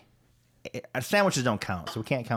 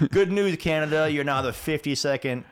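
higher, louder announcer delivery; mock announcement; 4 semitones higher, 3 dB louder than usual. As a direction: proclaim it to a whole nation in jest. Mock announcement of annexing Canada.

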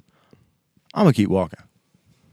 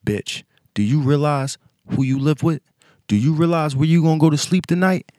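mock reasoning boyfriend; 5 semitones higher, 4 dB louder than usual. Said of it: "he stopped and was like".

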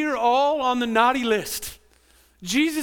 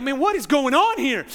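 exasperated reader; 5 semitones higher, 6 dB louder than usual. Retold or imitated. Mocking Bible-reading quitters.

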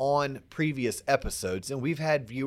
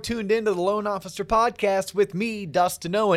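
hyped intro; 7 semitones higher than usual. Acted. Hyped podcast host intro.

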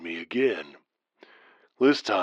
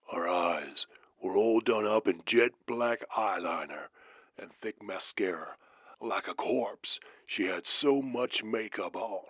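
creepy whisper; 5 dB quieter than usual. Acted. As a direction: hush it like a ghost story. Describing a corpse-like woman.

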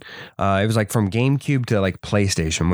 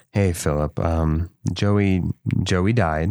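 lowered, hesitant imitation of mom; breaking bad news; 3 semitones lower, slower than usual. Mom tells her son the pet died, low and hesitant. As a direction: gently deliver bad news, halting and low.

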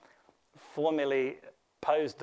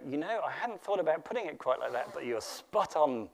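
a self-mocking stab at Australian; the speaker at the pub answering in a mild put-on Australian accent. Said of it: "That's my attempt at an Australian accent".

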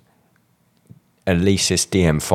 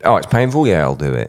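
mock macho drummer; 5 dB louder, faster than usual. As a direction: ham up a proud tough guy. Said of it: "mock drummer response".

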